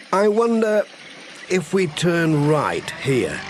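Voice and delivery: high, slow musing postman; Pat. Acted. Lost postman thinking aloud to his cat, high and slow.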